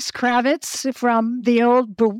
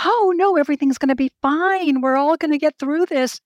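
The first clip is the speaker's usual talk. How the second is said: bright, higher hammed-up optimism; wide-eyed optimist; 5 semitones higher, faster than usual. Horror heroine to the group, cheerfully higher. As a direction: reassure everyone you'll all be fine. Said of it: "the wide-eyed optimist going in and saying".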